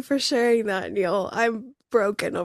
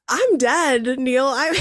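laughing, overwhelmed; 2 semitones higher than usual. Real, not acted. Host overcome by the guest's devotion, breaking into laughter. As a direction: laugh helplessly through the words.

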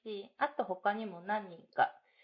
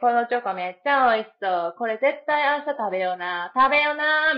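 upbeat gyaru chatter, a bit louder; gyaru talk; 2 semitones higher, 7 dB louder than usual. Retold or imitated. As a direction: gush like an excited office gal. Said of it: "ちょっとギャルっぽく喋ってんねんけど". (ちょっとギャルっぽい喋り)

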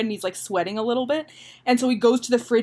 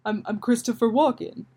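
Christopher Walken. Acted. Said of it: "how does Christopher Walken talk".

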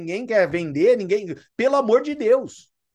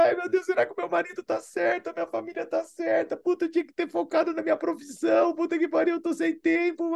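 high, soft hammed-up fretting; mock a worried doubter; whiny mock doubt; 8 semitones higher, 5 dB quieter than usual. Mocking doubtful distributor.

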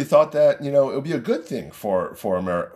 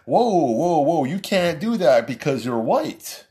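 hammed-up outraged objection, a bit higher; mock offended; 4 semitones higher, slower than usual. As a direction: play the offended scold, slowing on the end. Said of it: "I'm supposed to be offended and say".

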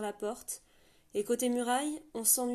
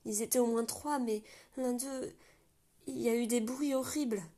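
stammering in fear; 4 semitones higher than usual. Acted. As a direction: stumble over the words, scared. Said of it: "balbutia Lana". (Lana bégaie, effrayée, devant la porte)

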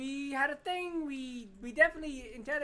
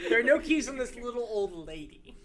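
put-on little old lady voice; 9 dB louder than usual. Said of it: "this is my little old lady voice".

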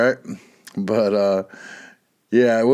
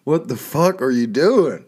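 mock disgust. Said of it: "It's like".

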